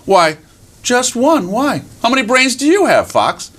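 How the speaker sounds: high little mouse voice; tiny mouse. Acted. Mouse answers the boasting fox, innocently curious. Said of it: "he met little tiny mouse".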